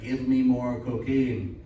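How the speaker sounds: slow, drawn-out junkie Roomba voice. Retold or imitated. Coked-up Roomba begging the owner, slow mock voice. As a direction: Roomba demanding its fix, slowly. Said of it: "And it's like".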